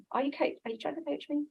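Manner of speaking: mock husband bristling at being coached; mock frustrated husband. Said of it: "My husband is always very frustrated".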